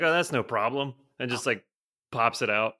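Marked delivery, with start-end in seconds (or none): 0.0-0.9 breezy South African attempt, Australian-sounding; botched South African accent. Guide shrugging off the huge tick, botched South African accent. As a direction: toss it off in a rough Australian-like accent. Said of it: "try and do a South African accent".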